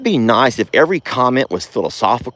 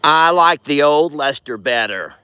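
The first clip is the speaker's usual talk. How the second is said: slow, higher whiny mock commenter; 5 semitones higher, slower than usual. Vlogger mocking lazy viewer comments, slow whiny voice. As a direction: parody a bored, whiny viewer. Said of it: "Instead of".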